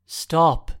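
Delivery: sharp shouted command. A narrator's reading. Man yells at kid shaking the dais, loud. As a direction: yell it to stop him.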